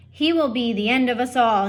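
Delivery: loud fatherly shout; a father mouse shouting at his wife about their son. Acted. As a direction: shout it in dismay. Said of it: "he shouted".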